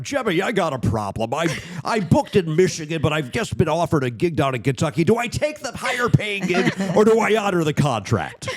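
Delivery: lightly voiced worried comic asking advice, rising at the end; a hint of a fretting Drew on the phone; mild impression of a nervous friend; Drew Hastings impression. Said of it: "that was at one time a good Drew Hastings impression".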